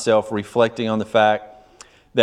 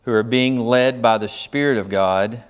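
measured, deliberate Bible reading with phrase breaks; solemn scripture reading. Real, not acted. Preacher reading scripture to the congregation, solemn and measured.

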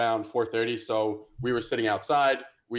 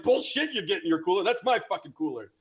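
retold yelling; 5 semitones higher than usual. Drinker confronting a guy taking his cooler, mild retold yell. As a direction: reenact an indignant confrontation in a raised pitch. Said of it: "yelling at this guy".

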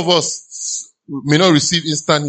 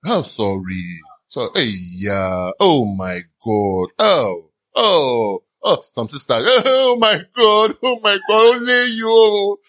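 a theatrical sister wailing oh my God slowly; mock sympathizing sister; 2 semitones lower, slower than usual. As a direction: ham up the shocked pity.

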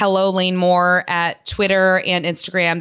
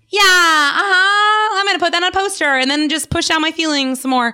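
mocking platitude; 10 semitones higher, 3 dB louder than usual. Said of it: "It's just to be like".

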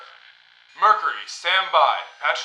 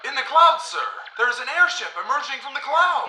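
urgent callout; 6 semitones higher than usual. Acted. Ensign alerting captain to an airship, urgent callout. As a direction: sing out the sighting with urgency.

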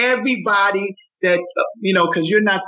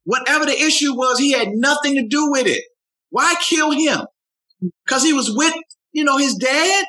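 higher-pitched plea, no actual sobbing; retold distraught mother; 8 semitones higher than usual. Grieving mother on the radio about her little son, distraught. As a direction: imitate a grieving mother's raised-voice protest. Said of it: "She couldn't stop crying".

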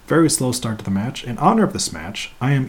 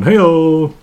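loud, higher punchline cheer; jokey holler; 5 semitones higher, 10 dB louder than usual. Pretend. Podcaster capping their own innuendo, jokey holler. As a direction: call it out long and loud, like a rimshot.

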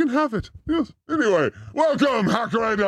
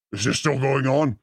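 grumbling guest; 7 semitones lower than usual. Retold or imitated. Imitates guest Bob waiting.

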